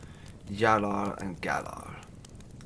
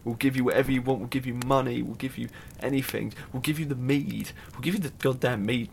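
higher, louder desperate begging for their lives; pleading; 4 semitones higher, 3 dB louder than usual. Acted. Dwarfs tied on the reef begging the son as the tide comes in, panicked pleading. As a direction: beg frantically, voice pushed up and loud. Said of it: "they pleaded and begged".

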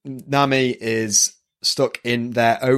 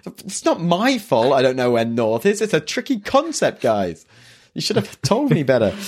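resolute Luffy; 4 semitones higher than usual. Retold or imitated.

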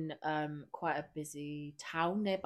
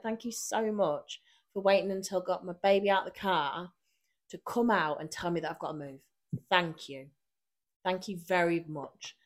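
sarcastic thanks. Retold or imitated. To the parking woman, sarcastic gratitude. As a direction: thank her with a sneer. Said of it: "Are you being sarcastic?".

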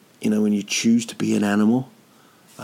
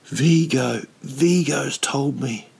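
put-on child crying; 5 semitones higher, slower than usual. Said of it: "And he was crying".

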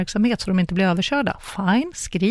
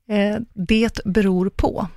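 "det beror på" stretched out slow, each word given weight; slow, knowing "det beror på"; drawn-out favourite phrase; much slower than usual. Shown as a demonstration. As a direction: savour "det beror på" slowly, as a trademark line. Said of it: "Det är mitt älsklingsuttryck".

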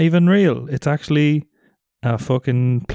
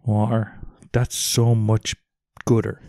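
silly low voice; 5 semitones lower, 3 dB quieter, slower than usual. Pretend. Jokey silly voice.

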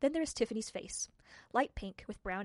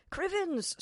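wee man exclaiming; 9 semitones higher than usual. Acted. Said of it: "said the swimmer".

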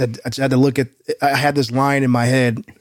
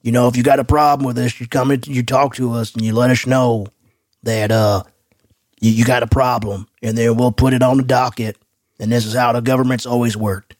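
Jerry Jones voice; 3 semitones lower than usual. Retold or imitated. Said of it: "I got lost in the voice".

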